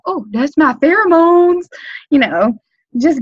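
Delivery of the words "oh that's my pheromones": high, playful boast; flirty offhand product plug; coy brag. Shown as a demonstration. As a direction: tease them with a knowing brag. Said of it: "And you're like".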